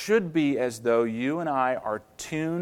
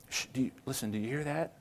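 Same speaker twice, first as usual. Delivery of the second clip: hushed listening; 9 dB quieter, much faster than usual. Retold or imitated. Acts hushing her to listen.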